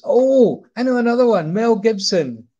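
high, loud burst of delight; excited idea. Retold or imitated. Robin Williams eagerly offering another impression, high and loud. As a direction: pitch up as the idea hits.

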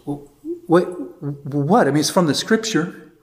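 flustered priest. Retold or imitated. Flustered priest answers the visiting teacher, mildly flustered. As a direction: play the caught-out priest defending himself.

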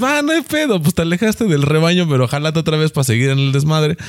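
mock buddy voice. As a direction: squeak it out like a teasing friend. Voicing a forgiving buddy.

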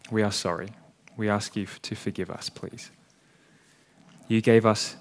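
hushed, sincere church prayer; closing prayer. Real, not acted. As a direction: pray humbly over the congregation.

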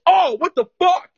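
high-pitched imitation of a shocked officer; shocked cop. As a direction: squeak it out like a stunned cop. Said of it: "he goes".

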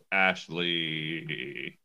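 low, soft, flat angry name; low monotone anger. Retold or imitated. Muttering the name when the annoying housemate shows up, low and angry. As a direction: sink the name into quiet fury. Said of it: "lower and more monotone the angrier it gets".

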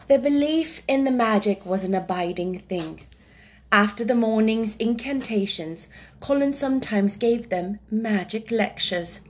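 measured storybook reading; story narration. A narrator's reading. Reading a chapter to young listeners, story narration. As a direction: read it out like a classic children's novel.

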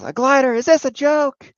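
sneering villain in disbelief; mocking Hobgoblin. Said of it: "And Hobgoblin's".

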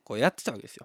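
ordinary talk, nothing marked

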